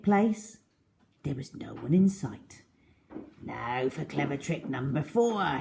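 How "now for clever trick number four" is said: 1 sly whisper. A narrator's reading. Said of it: "he whispered to himself".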